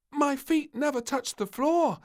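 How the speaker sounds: put-on high, loud child protest. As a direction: insist innocently, high. Princess protesting to the doctor.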